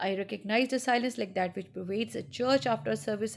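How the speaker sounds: slow, measured literary reading; story reading. Acted. Teacher reading Araby to students, slow story narration. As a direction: read each phrase slowly to the class.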